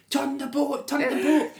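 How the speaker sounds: high-pitched, imitated screaming order; hammed-up frantic shriek; mock scream. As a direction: scream it like a panicking skier, played for laughs. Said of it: "she's sitting screaming".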